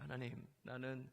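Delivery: tearful confession. Retold or imitated. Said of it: "막 울기 시작한 거예요".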